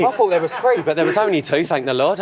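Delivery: breathless after pumping balloons; a little winded from pumping; out of breath. Real, not acted. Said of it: "I'm a bit out of breath".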